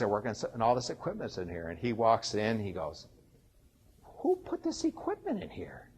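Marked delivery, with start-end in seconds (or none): 4.0-5.9 high, demanding retold yell from the inspector; angry inspector. Building inspector finding equipment in his unapproved club, high angry demand. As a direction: bark it out like a furious building inspector.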